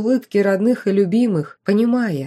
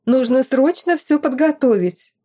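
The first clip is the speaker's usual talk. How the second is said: fussing excitedly; 6 semitones higher, 4 dB louder than usual. A narrator's reading. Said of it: "засуетилась она".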